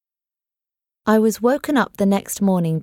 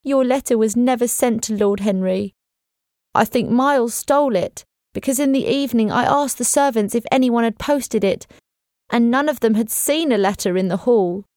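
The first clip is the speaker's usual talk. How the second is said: lightly raised voice of the anxious housekeeper; a hint of the fretful old servant, pressing on; nervous housekeeper, lightly voiced; worried housekeeper; 5 semitones higher than usual. Mrs Groves voiced, worried.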